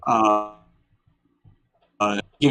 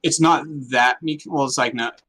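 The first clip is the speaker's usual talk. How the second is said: echoey voice like in a silo; inside a silo. Real, not acted. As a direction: sound as if echoing inside a silo. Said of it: "Brayden sounds like he's in a silo".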